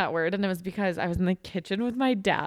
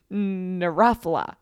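put-on made-up baby word; 4 dB louder, much slower than usual. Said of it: "taking random sounds".

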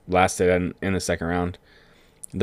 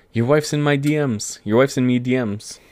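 higher mock Irish accent, hammed-up; a cartoonish Irish brogue, Lucky Charms style; 5 semitones higher than usual. Retelling McGregor's taunt to the crowd in a mock Irish accent. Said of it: "do an Irish accent without sounding like a Lucky Charms guy".

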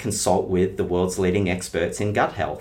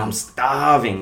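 put-on dramatic kid; 4 semitones higher, 4 dB louder, slower than usual. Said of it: "they use this very dramatic, colourful kind of language".

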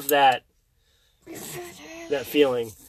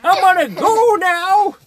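put-on high, slow, creaky old man; 13 semitones higher than usual. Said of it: "all I can do is the old man voice".

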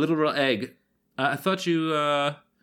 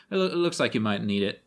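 tender barmaid; 4 semitones lower than usual. Acted.

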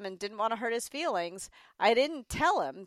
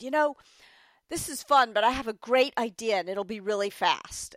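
kindly; 3 semitones higher, 3 dB louder than usual. Retold or imitated. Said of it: "Bob very kindly said".

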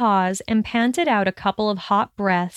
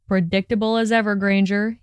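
slurred; faster than usual. Acted. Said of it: "he slurred".

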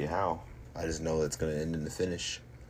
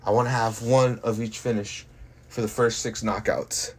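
rising, fast cocky brag; cocky boxer boast; 3 semitones higher, 3 dB louder, faster than usual. Real, not acted. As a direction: fire off the boasts. Fighter boasting knockout plans.

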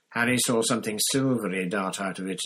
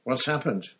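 loud, raised-pitch irritation; impatient, angry demand for news; furious; 4 semitones higher, 6 dB louder than usual. A narrator's reading. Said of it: "he said furiously".

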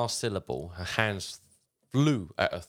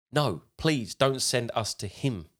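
begging; 4 semitones higher than usual. Retold or imitated. Podcaster retelling demons begging the exorcist, mildly pleading. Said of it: "now they're begging".

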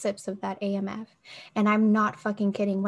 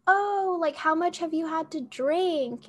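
higher-pitched, lightly voiced medic question; 7 semitones higher, slower than usual. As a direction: lightly mimic a medic checking up. Retold EMTs questioning her.

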